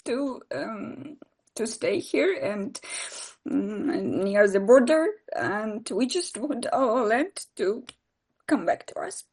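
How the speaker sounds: holding back tears while speaking of home; choked up. Real, not acted. Ukrainian woman in Kyiv longing for her land, choked up. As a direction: voice catching, slowing with real emotion. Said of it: "Sorry, I'm super emotional".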